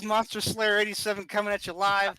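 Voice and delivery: loud, punchy livestream host; hammed-up broadcast greeting; hype streamer intro. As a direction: open like a YouTube monster hunter going live.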